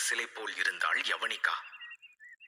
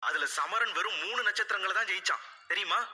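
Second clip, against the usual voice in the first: higher and fast, insisting; indignant daughter; 7 semitones higher, faster than usual. A narrator's reading. Daughter protesting to her mother, higher and fast. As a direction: make them see what happened.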